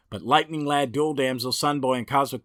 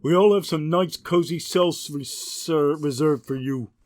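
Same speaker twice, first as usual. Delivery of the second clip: louder, barking jailer voice that sneers at the prisoners; gruff guard; 4 semitones higher, 6 dB louder than usual. Acted. Guard herding the arrested Legionnaires to their cells, loud and gruff. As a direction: play a thug guard pushing prisoners along. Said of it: "the guard's going".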